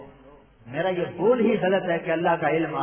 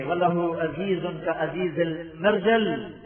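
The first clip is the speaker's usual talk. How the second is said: intoned Arabic quotation; Arabic recitation. Acted. Preacher quoting the Prophet's weeping in Arabic, intoned. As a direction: recite the hadith solemnly.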